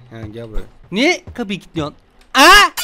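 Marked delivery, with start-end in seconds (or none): 2.3-2.7 sudden high startled ha; shocked yelp of a question. Real, not acted. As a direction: jolt of real surprise. Startled by locked door.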